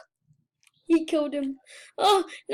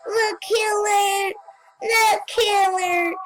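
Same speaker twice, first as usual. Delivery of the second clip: slow, raised, drawn-out calling; 3 semitones higher, slower than usual. Pretend. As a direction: stretch "killer" out slow and higher. Calling out the killer in game.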